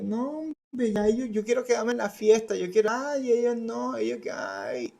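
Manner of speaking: mock a fed-up kid griping about his parents; complaining teen. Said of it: "en algún momento pensó".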